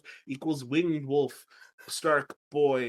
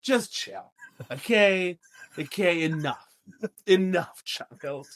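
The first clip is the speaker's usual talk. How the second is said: dismissive Luwin; 3 semitones higher than usual. Retold or imitated. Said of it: "Luwin's like".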